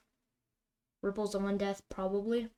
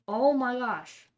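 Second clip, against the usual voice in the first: slow, drawn-out, louder oh my gosh; stunned gasp; 3 semitones higher, 8 dB louder, much slower than usual. Real, not acted. Gamer reacting to an absurd play, stunned and drawn out. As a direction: let the disbelief stretch out.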